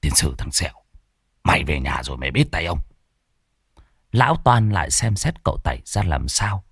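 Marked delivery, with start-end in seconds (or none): 0.0-2.8 softer, lower grumbled threat; under-the-breath grumble, quick at the end; muttered threat. Acted. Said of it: "tái mặt lẩm bẩm".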